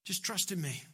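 calm a worried listener softly; calming reassurance. Acted. Voicing Jesus calming Martha.

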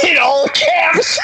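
laughter breaking into the reading; cracking up. Real, not acted. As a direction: lose it halfway through reading.

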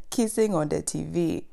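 mock Nigerian-accented scolding. African kid voicing strict parents' disapproval, in a hammed Nigerian accent. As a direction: put on a rough Nigerian accent. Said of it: "I don't know why I went Nigerian".

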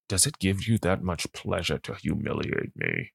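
low, soft, gruff movie-husband menace. Acted. Host voicing the husband confronting his wife up close, in a gruff voice. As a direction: lean in and go low and gruff, hammed-up gumshoe. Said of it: "and in this gruff voice".

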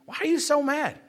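amused, teasing question through a laugh; chuckling repeat. Acted. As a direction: let the laugh carry the words.

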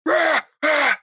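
dad mocking sports cheering. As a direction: ham up a sideline cheer.

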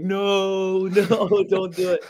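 high-pitched mock plea, cut by a laugh; pleading kid. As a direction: play the kid begging mum not to tell dad, half laughing. Kid begging dad not be told.

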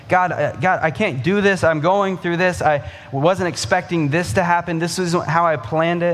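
mock desperate prayer. Preacher imitating a worried believer praying, mildly pleading. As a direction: voice someone overwhelmed and complaining. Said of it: "we focus on the "you wills" in our life".

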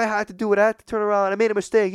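high, indignant self-defence; mock yelling. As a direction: imitate a driver protesting in an argument. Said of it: "they're just yelling at each other".

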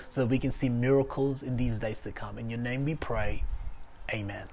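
soft, hushed pastor's prayer fading out; closing prayer. Acted. Pastor prays over online viewers, softly and hushed.

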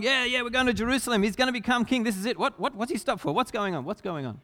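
quick, excited crowd chatter, then puzzled; imitating the crowd. Preacher voicing the impatient crowd on the road, quick chatter. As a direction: mimic a bustling crowd caught off guard.

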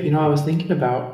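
quick North Dakota accent warm-up. Shown as a demonstration. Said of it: "is I'll say".

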